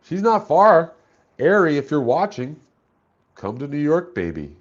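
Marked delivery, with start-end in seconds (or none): 1.4-4.5 high, loud coaxing call; hammed-up romantic plea. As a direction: sweet-talk her to come over. Pleading to Ari Jane.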